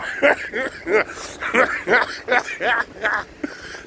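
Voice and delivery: cackling, high and breathy; long high laugh. Real, not acted. Long laugh after quote.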